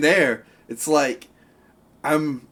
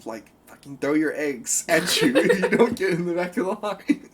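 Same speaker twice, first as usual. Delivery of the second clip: laughing threat; 3 semitones higher than usual. Retold or imitated. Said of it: "And I was like".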